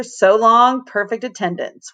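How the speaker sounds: gleeful whoop, then trailing off. Acted. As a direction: whoop it with glee. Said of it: "whooped Emberly".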